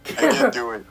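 exasperated cry. Acted. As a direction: whine that you can't. Gives up accent.

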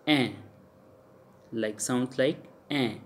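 "an" said through the nose; nasal vowel. Shown as a demonstration. Teacher models French I N sound, nasalised "an". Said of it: "are the nasalization of the sound of".

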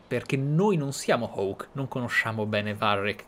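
usual speaking voice

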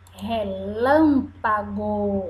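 relâmpago stretched out slowly; slow teaching word. Shown as a demonstration. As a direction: say relâmpago syllable by syllable. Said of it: "Ré de".

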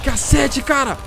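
high, loud burst of relief; shaken exclamation. Real, not acted. Gamer just survived the attack, shaken exclamation. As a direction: still rattled, blurting it out.

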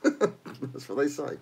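slow, hammed-up fake French; mock French accent. Mocking the French on stream, slow fake French accent. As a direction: drawl it out like a cartoon Frenchman. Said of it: "That's what all French people say".

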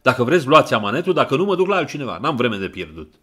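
loud, fast, angry ultimatum; furious snap. Acted. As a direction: rush the threat out in anger. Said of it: "se răsti el furios".

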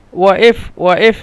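ওয়াইফ with a glottal stop where the qaf would be; ওয়াইফ with hamza in place of q; Egyptian hamza sound. Shown as a demonstration. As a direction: say ওয়াইফ as "wa'ef", catching the throat mid-word. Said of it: "ওয়াইফ কিন্তু হামজা".

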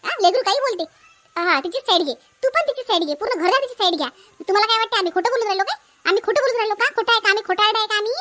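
sarcastic, indignant retort; angry quarrel. Acted. Wife angrily confronting husband for siding with sister-in-law. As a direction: throw his words back at him bitterly.

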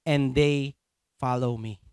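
slow, broken into two weighty pieces; emphatic repetition. Acted. Preacher repeating verse twenty-seven for congregation, slow emphatic repetition. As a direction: pause before finishing the phrase. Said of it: "Ulitin ko".

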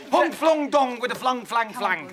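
gibberish fake Chinese, laughing; hammed-up mock Chinese gibberish. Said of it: "a plate of chips in Chinese".

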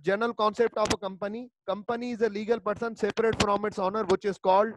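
धीमे-धीमे शब्द तोड़कर पढ़ना; slow dictation. Shown as a demonstration. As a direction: read it out slowly, word by word, for notes. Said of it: "just read करनी है मुझे". (हैंडआउट से धीमी श्रुतलेख जैसी पढ़ाई)

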